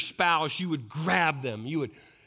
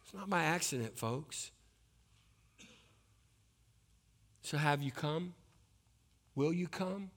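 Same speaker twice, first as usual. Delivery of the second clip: softer, gentle altar call plea; soft invitation; 4 dB quieter than usual. Acted. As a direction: invite them gently to come forward.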